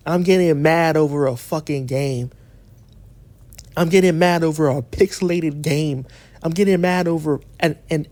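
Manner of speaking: mock their dismissive line in a low voice; mocking quote. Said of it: "they wanna switch the topic to".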